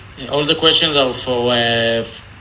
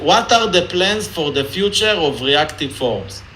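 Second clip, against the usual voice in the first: Israeli accent; 3 semitones higher than usual. Shown as a demonstration. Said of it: "in an Israeli accent".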